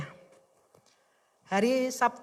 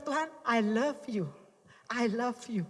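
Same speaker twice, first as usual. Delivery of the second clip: tender prayer; 5 dB quieter than usual. Retold or imitated. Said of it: "Saya cuma bilang begini".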